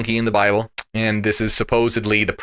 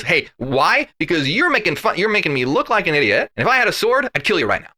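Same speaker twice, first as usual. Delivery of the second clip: a higher, whiny mock-angry rant; mock angry Balaam; 5 semitones higher than usual. Host mocking Balaam's threat to his donkey, higher and huffy. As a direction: play him as a petty, huffy rider.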